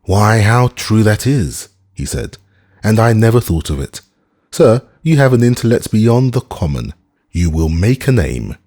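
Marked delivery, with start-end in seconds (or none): 0.0-1.7 higher, slow, tipsy exclamation; radiant delight. Acted. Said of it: "struck the table with a radiant face". 2.8-8.6 higher, louder grand flattery; tipsy mock praise. Drunk Syme mock-praising Professor.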